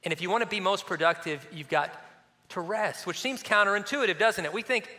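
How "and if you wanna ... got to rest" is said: gentle god. Retold or imitated. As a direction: say it with a smiling headshake. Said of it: "I just picture him smiling, shaking his head".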